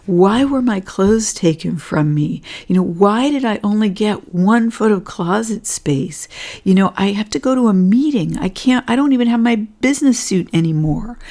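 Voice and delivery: a touch of play-acted anger; mock frustrated rant. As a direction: vent like someone robbed of their closet. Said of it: "I might get super frustrated and angry".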